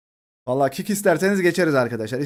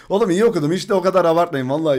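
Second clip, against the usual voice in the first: protesting loudly; 4 semitones higher, 5 dB louder, much faster than usual. Real, not acted. Defending his reading to chat.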